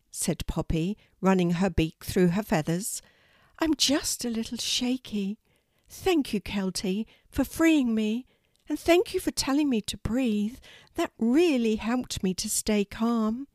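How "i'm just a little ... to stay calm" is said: high bird voice; grateful little raven. Acted. Freed Poppy thanks Kelty for rescuing her, high grateful voice.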